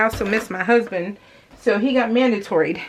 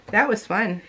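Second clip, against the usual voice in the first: sarcastic; 3 dB quieter than usual. Real, not acted. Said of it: "I said with the most sarcasm ever".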